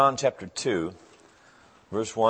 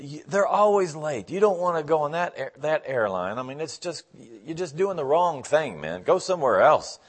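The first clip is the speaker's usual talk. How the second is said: negative barber; 5 semitones higher than usual. Retold or imitated. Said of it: "the guy was just so negative".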